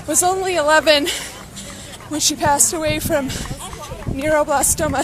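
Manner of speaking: panting between words; winded from running, gasping lightly; out of breath. Real, not acted. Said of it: "so out of breath".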